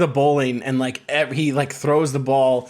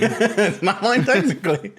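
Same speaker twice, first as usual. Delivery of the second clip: laughing; 4 semitones higher than usual. Real, not acted. Laughing echo of friend.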